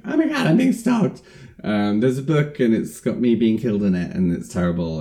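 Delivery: high, breathless panic; panicked woman. Retold or imitated. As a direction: blurt it out in a panic. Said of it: "she goes to the police and's like".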